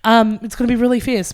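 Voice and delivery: hyped plug. Pretend. Plugging a friend's drag show, mock promo hype. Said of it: "Oh, plug that".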